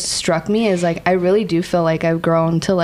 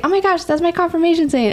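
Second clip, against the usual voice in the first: much higher, thrilled exclaim; excited surprise; 11 semitones higher than usual. Retold or imitated. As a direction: squeal it with delight. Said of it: "she was like".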